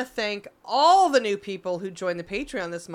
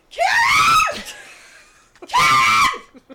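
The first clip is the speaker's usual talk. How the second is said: shrieking, very high and loud witch voice; Victorian witch shriek; 10 dB louder than usual. Retold or imitated. Retelling a neighbor's order, a shrieking witch voice. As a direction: screech her name like a movie witch. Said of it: "The fucking witch, Victorian witch".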